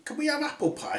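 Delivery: Happy dwarf. Acted. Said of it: "said Happy".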